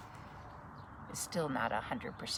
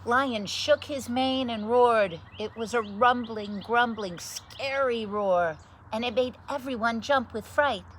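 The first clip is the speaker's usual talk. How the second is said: dramatic; 10 semitones higher, 9 dB louder than usual. A narrator's reading. Lion's roar described dramatically.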